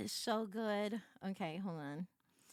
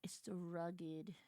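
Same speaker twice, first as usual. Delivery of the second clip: slow whispered gush; 7 semitones lower, 11 dB quieter than usual. Real, not acted. Streamer swooning at the rugged hero, slow whisper. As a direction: hush it out, slow and dreamy.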